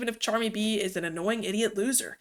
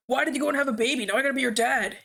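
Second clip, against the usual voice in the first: fast, raised angry yell; 4 semitones higher, faster than usual. Acted. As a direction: yell it at her, furious. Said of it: "he kept yelling at her".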